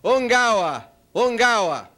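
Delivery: mild mock yell, each cry falling; mock tribal yell. After-dinner speaker imitates a tribe cheering the coach, mild mock yell. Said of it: "everybody just cheered and yelled".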